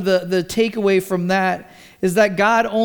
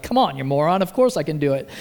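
mock rebuke; 6 semitones lower, faster than usual. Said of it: "to rebuke and be like".

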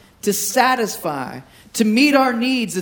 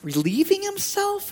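mock taunt; 3 semitones lower, 4 dB quieter than usual. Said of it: "he's totally trash talking".

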